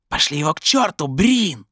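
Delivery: very high, screechy yelp; screaming inner voice. A narrator's reading. Voice in his head eggs Brin on, screaming high. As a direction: shriek it like a demon in the head. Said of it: "завопил голос".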